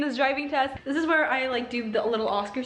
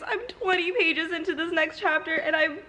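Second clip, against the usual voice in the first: real tearful laughing; 3 semitones higher than usual. Real, not acted. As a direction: close to tears, half laughing. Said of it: "I'm actually crying".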